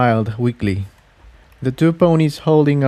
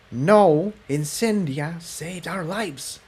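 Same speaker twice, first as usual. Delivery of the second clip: much softer and slower, to herself; muttered; 6 semitones higher, 5 dB quieter, slower than usual. Acted. Tiptoe correcting Jigsaw to herself, muttering. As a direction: grumble it under the breath. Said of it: "Tiptoe muttered".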